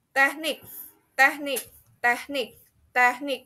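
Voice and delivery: "teknik" with NIK stressed; stress on last syllable. Shown as a demonstration. Teacher drills learners, "teknik" stressed on NIK. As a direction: lift the end of "teknik". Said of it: "at the end of the word".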